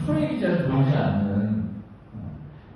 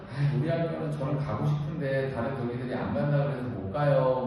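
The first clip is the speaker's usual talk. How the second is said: softer, lower mock excuse; reluctant excuse; 4 semitones lower, 4 dB quieter than usual. Branch chair declining a protest, reluctant excuse. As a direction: beg off half-heartedly, imitating an unwilling member. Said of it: "그래서 투쟁 가요 그러면".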